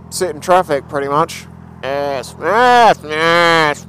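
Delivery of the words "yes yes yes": loud building cheers of yes; excited repeated yes. Real, not acted. Finally through the traffic, cheering loudly yes. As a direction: shout yes with rising glee.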